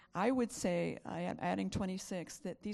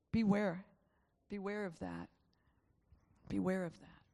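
hushed warning. Real, not acted.

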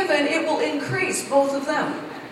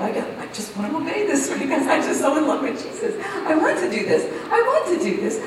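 laughing gush; 3 semitones higher than usual. Retold or imitated. Gushing obedience, laughing.

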